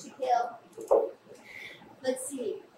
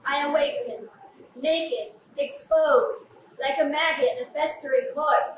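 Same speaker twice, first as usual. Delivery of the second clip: poem reading. Acted. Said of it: "I found a poem".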